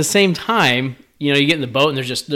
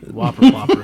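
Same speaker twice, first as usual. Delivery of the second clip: higher, louder hyped announcer call; sports commentator; 12 semitones higher, 4 dB louder than usual. Acted. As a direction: call it like a big play. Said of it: "You say it like a sports commentator".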